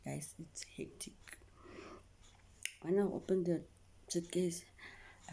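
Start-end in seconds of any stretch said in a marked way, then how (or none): 0.0-1.1 hushed whisper to the viewers; dramatic confiding whisper. Real, not acted. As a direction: lean in and whisper it.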